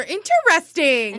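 slow "interesting" with every syllable sounded; stretched, syllable-by-syllable "interesting"; over-articulated pronunciation. Shown as a demonstration. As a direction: draw out "interesting" as in-ter-EST-ing. Demonstrating another way she says it.

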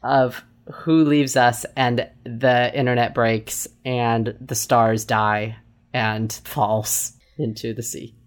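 slow, fading doom-laden delivery; dramatic doom. Pretend. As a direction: drag it out like a tragedy. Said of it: "you're making it worse".

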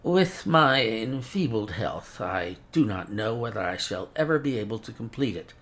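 put-on a fussy old scholar with a mincing accent; mincing foreign accent. Old professor shows his work.

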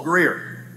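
"Grier" said as one syllable; correct pronunciation. Shown as a demonstration. Pastor to church, correcting how his name is said, one syllable. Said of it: "it's just pronounced as one syllable".

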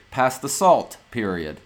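"Pass the salt, period." read with a falling end like a statement; flat statement tune. Shown as a demonstration. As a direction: say it flat, no question lift. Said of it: "what do you do?".

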